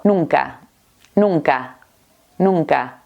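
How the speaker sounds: NUNCA with its second N softened to "nung-ka"; N adouci. Shown as a demonstration. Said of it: "la N es una consonante que suavizamos muchísimo".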